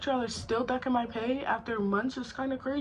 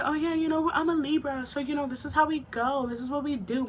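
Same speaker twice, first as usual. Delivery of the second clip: higher-pitched mock coworker excuse; lightly mocking higher voice; mimicked coworker; 5 semitones higher than usual. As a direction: imitate her breezy excuse, pitched up at first. Mimics coworker excusing herself as Libra.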